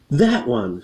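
a light, acted shout; mild shout. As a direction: call it out without full force. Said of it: "shouts Elliot".

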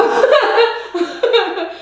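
high burst of laughter; real laugh. Real, not acted. Woman laughing at what she almost said, high laugh. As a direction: let the laugh break out high.

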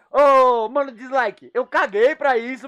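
grita com desdém, mais alto; gritando. Real, not acted. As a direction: bronca gritada de provocação. Bronca no hater do dislike. (gritando com desdém)

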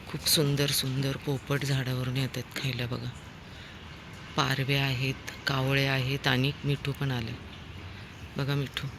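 hushed aside to viewers; quiet commentary. Real, not acted. Vlogger tells viewers about parrots, soft commentary.

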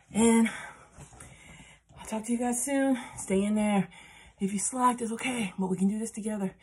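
loud, breathless sign-off after the workout; pushing words out between heavy breaths. Real, not acted. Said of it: "Yeah, I'm out of breath".

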